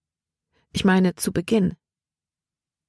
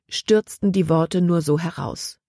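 usual speaking voice

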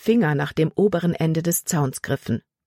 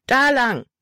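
high, urgent call; 8 semitones higher than usual. A narrator's reading. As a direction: shout the direction to the gang. Gang shouting directions during a chase. (hoch gerufene Richtungsangabe)

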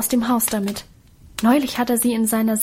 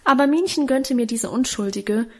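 plain reading voice

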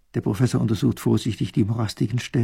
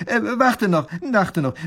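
calling back; 9 semitones higher, 5 dB louder, slower than usual. Acted. Professor calls departing soldier back.

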